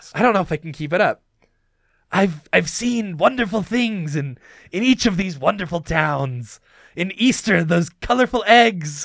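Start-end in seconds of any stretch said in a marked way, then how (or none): 2.1-9.1 slow, drawn-out storybook character voice, drifting off. Voicing Jack again, drifting toward Mark Hamill. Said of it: "I'm kind of turning into Mark Hamill".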